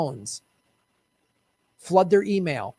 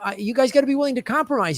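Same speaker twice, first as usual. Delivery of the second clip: mocking lecture; 6 semitones higher, faster than usual. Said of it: "you always say".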